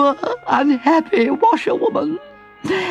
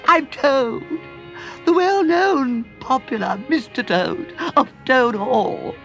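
high, slow desperate begging Toad; pleading cry; 8 semitones higher, slower than usual. A narrator's reading. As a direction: beg for rescue, much higher and slow.

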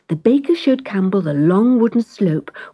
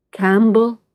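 proud cat. Acted. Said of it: "said the cat proudly".

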